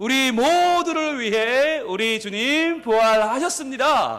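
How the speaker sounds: slow, loud, joyful drawn-out shout.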